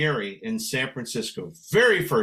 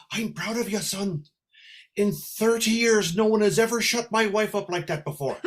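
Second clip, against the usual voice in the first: higher Irish-accented imitation; Irish husband's brogue; 5 semitones higher than usual. Husband congratulating singer behind wife's back, Irish brogue. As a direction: confide admiration in an Irish brogue. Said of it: "The husband comes up".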